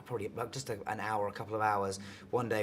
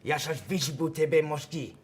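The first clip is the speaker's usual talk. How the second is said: Russian phrase attempt; 4 semitones higher, 4 dB louder than usual. Shown as a demonstration. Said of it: "very bad Russian accent".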